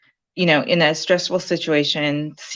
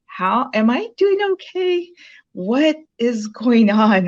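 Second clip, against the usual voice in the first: much higher, pleading worried questions; anxious and confused; 7 semitones higher, 4 dB louder than usual. Retold or imitated. Texting the coach, confused by the modules, high anxious pleading. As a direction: beg for reassurance, rattled. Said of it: "I'm like".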